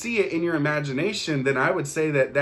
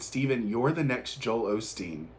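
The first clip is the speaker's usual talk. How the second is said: soft retold quote; 4 semitones lower, 6 dB quieter than usual. Retelling the lady's words on the call, softly. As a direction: lower and softer, gently spoken. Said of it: "she said it like this".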